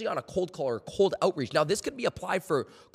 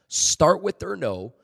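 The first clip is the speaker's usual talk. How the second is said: louder, slower, leaning on START; emphatic repeat; 7 dB louder, slower than usual. Shown as a demonstration. Coach repeating the key rule to sales reps, emphatic. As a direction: drive home "Start with their no." with START loud and slow. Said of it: "Can I say that again?".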